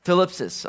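Thlipsis with a lisped f-like th. Shown as a demonstration. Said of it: "you gotta say that with a little bit of a lisp".

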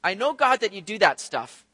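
discounting doubt. Retold or imitated. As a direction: trail away unsure it applies to you. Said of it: "do we just kind of discount it".

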